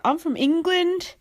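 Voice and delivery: high, slow, lightly put-on voice; a hint of a drawled Chloe impression; mock Chloe. Mocking Chloe answering Spencer, high and slow. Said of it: "She's like".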